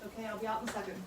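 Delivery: calling out through a closed door; muffled, called through the door. Real, not acted.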